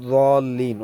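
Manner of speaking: "দলিন" begun midway between z and d; in-between pronunciation. Shown as a demonstration. Teacher modelling the middle way, in-between pronunciation. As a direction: draw out "দলিন" slowly, its first sound between d and z. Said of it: "মাঝামাঝি উচ্চারণটা করার চেষ্টা করি".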